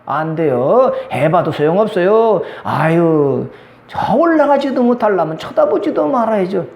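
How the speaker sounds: negative person. Acted. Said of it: "근데 부정적인 사람은".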